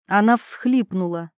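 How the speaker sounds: ordinary delivery, nothing marked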